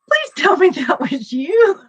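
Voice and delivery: begging it was only her friend; frightened plea. Retold or imitated. Grabs friend after foot grabbed.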